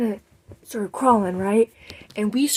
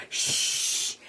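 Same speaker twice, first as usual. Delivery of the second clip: unvoiced shush; quick shh. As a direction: hush her sharply. Friend hushing.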